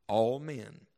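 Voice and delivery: "all" set apart after a pause; pause, then place "all" deliberately; separated, deliberate "all"; stress on ALL. Shown as a demonstration. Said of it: "I'll emphasize it as I read it".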